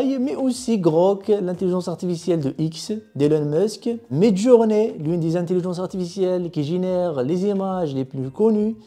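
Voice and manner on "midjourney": ordinary delivery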